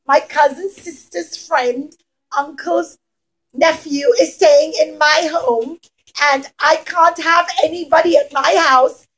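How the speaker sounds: lightly voiced flustered excuse; a hint of a fussy villager. Villager making excuses to Rabbi Akiva, lightly fussy. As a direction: fumble a silly excuse, mildly flustered. Villagers refusing in quoted speech.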